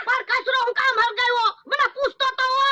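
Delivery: stunned, pleading protest. Acted. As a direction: pitch shoots up in alarmed disbelief. Man panics over burnt money.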